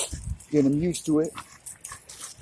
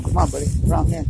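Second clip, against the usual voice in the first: quick, louder call to the dog; 3 semitones higher, 4 dB louder, much faster than usual. Real, not acted. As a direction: hurry him along. Calling dog on the walk.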